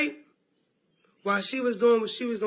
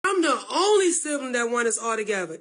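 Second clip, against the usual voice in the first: a rueful laugh breaking into tears; laughing through tears. Real, not acted. Upset sister laughing through tears about family. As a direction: laugh it off while near crying.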